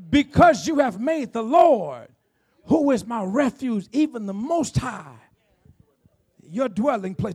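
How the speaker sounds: slow, weighty verse reading; measured pulpit recitation with long key words; scripture reading. Real, not acted. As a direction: draw out each phrase of the verse.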